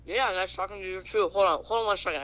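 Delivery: talking with a mouth full. Real, not acted. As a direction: speak round a mouthful of food. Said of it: "I have my mouth full of something".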